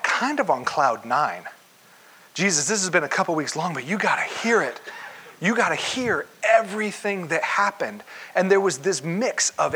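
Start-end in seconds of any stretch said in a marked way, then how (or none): 2.3-8.0 a bit higher and bubbling, with a laugh; mildly excited disciples with a laugh; eager excited report. Acted. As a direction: gush like a kid back from camp.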